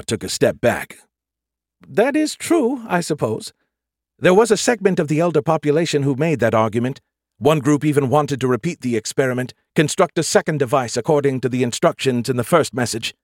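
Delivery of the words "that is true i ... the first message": Skippy voice. A narrator's reading. Skippy's voice, high.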